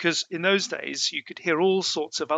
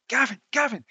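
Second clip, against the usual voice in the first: mum calling; 9 semitones higher, 4 dB louder than usual. Retold or imitated. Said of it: "she went".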